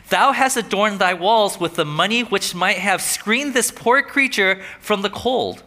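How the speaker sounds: slow, grave reading; a touch of remorse, slow; remorseful reading. Retold or imitated. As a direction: read it slowly, full of regret. Reads remorseful diary lines.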